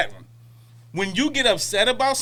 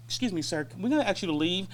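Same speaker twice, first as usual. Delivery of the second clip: polite dismissal; 2 semitones lower, 8 dB quieter than usual. Retold or imitated. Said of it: "when a person be like".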